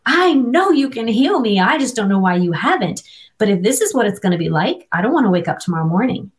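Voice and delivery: half-hearted righteous protest at God; indignant. Retold or imitated. To God after months of brain injury, mildly indignant. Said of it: "like, indignant".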